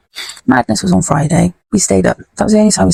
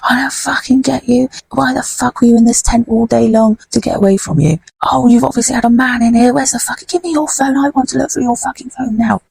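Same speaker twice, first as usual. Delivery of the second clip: higher, whiny, mock-nasal abusive man; nasal rat weasel; 6 semitones higher than usual. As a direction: imitate a weaselly bully ranting. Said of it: "you heard a nasally noise".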